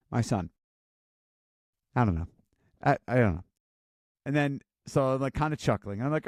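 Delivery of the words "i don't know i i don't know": low, flat shrug of an answer; mumbled teen reply. Retold or imitated. Son shrugging off his mom's questions, low mumble. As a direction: mumble it like you have no clue.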